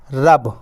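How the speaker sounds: "रब" as one short joined word; teacher's clean one-syllable "रब"; model reading. Shown as a demonstration. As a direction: say "रब" in one go, low. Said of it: "बस ऐसे ही पढ़ना आपको".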